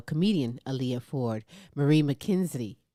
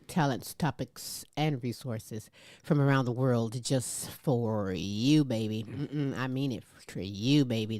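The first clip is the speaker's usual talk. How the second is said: smooth and slow; 2 semitones lower than usual. Acted. Host crooning sign-off.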